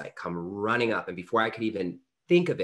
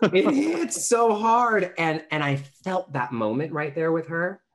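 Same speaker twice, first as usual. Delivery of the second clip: much higher, slow and louder, moved; deeply moved; 10 semitones higher, 7 dB louder, slower than usual. Real, not acted. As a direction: let the weight of it land slowly. Moved by memory.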